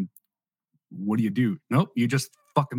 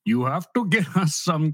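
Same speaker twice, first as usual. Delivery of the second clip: put-on Indian accent; 6 semitones higher, 3 dB louder than usual. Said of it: "just for the freaking Indian accent".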